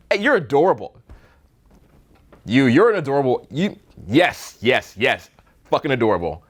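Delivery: relaxed, offhand, giving it freely; easy, unbothered praise in a near-normal voice; carefree genuine compliment. Shown as a demonstration. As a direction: hand it over like a gift, wanting nothing back. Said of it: "you hear the difference in the voice".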